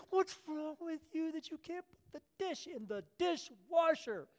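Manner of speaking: mock the resentful sister, pitch climbing; bitter Martha. Preacher mocking Martha griping about the dishes, high and whiny.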